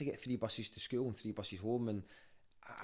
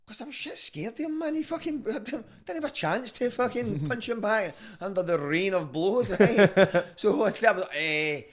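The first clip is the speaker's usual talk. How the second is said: high, loud, laughing through it; 10 semitones higher, 11 dB louder than usual. Real, not acted. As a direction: crack up while telling it. Laughing retelling fight story.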